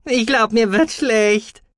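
high, slow creature voice; queasy Gucky. A narrator's reading. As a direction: drag it out high, as if getting sick. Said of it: "murmelte Guki". (hoch, gedehnt, mit Übelkeit)

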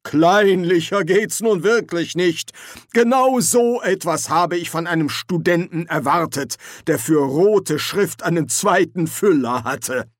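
wizard insulting a rival; scornful insult. Acted. Quarrel, insult.

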